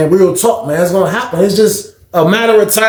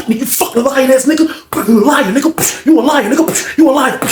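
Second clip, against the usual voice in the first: raised, higher angry accusation; 8 semitones higher than usual. Retold or imitated. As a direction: spit the accusation. Fight heard in the cell.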